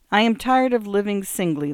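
put-on reciting in an English accent. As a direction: read aloud in an English accent. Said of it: "the nurse went on".

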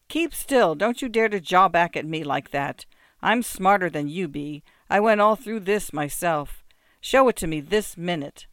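loud, overbearing peasant voice; bossy muzhik. Acted. Muzhik bossing the beggar about, loud and overbearing. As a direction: lord it over him, loudly.

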